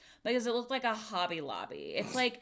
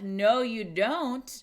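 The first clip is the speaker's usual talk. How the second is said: firm refusal; 5 dB louder, much slower than usual. Retold or imitated. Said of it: "And they're like".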